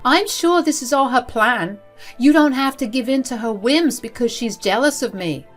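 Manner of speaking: high, protesting mother voice; indignant mother. A narrator's reading. Mother protests to her son.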